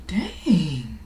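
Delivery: high, loud, laughing whine; laughing protest. Retold or imitated. Speaker answering God's rebuke, high and laughing. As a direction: cry out half laughing. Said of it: "And I'm like".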